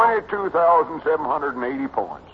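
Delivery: high country lad, bragging; Cedric, boastful boy. Acted. Cedric telling of his pinball score, proudly boyish. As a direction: brag in a simple, excited boy's voice.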